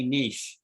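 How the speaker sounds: "niche" said as "neesh"; French-style pronunciation. Shown as a demonstration. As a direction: rhyme "niche" with "leash". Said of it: "the French say niche".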